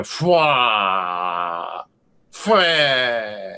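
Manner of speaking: blurted off-key bagpipe bleat; mock bagpipe squawk. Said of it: "hitting the wrong notes".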